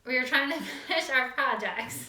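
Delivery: a laugh breaking into the sentence; amused, chuckle partway through the words. Real, not acted. Co-host explains why they were late, laughing. Co-hosts laugh over their lateness.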